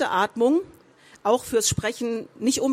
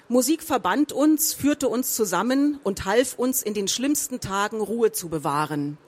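"uns" and "führte" lifted, falling only at "bewahren"; voice held up through the list. Shown as a demonstration. Speaking coach demonstrates arcs in a list, voice held up until the end. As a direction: keep the arc over each comma until "bewahren". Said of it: "noch nicht mit meiner Stimme runtergehen".

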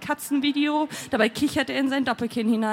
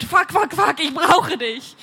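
raised voice, drawn out at the end; desperate; 3 semitones higher, 4 dB louder, slower than usual. A narrator's reading. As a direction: cry out in need, stretching the final plea. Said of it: "ich ertöne verzweifelt". (verzweifelt ausgerufen)

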